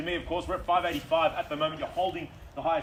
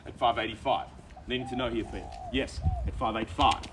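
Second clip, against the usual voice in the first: mid-range auctioneering voice; 2 semitones lower than usual. Real, not acted. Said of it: "my mid-range auctioneering voice".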